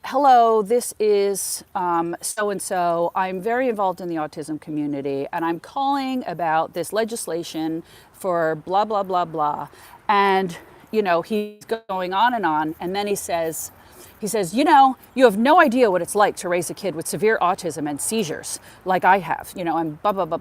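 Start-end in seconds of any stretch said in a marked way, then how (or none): 0.1-9.7 a caller going on, a touch louder; brisk formal caller launching in; imitating an eager caller. Caller phones the assembly office, mock eager voice. 14.5-20.4 louder, insistent complaint; mock upset father. Father of an autistic son scolds the office worker, insistent.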